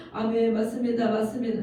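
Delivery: loud, affirming amen; re-enacted amen response. Pastor re-enacts answering scripture while reading in tears, loudly affirming. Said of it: "이렇게 하면서 읽는 거예요".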